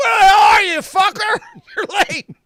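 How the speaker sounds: very high, very loud, shrill, furious shouting. Describing an unused movie take, retelling the actor yelling under the mask. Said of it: "him yelling".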